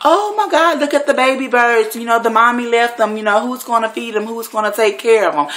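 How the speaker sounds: high, whiny imitation of a weeping girl; hammed-up tearful fretting over baby birds; mock crying. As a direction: wail it high, mocking her distress. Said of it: "she get to crying like".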